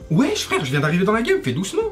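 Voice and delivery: high, exasperated street slang; french street slang. Acted. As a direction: protest like a street kid. Reacting to Russian insults.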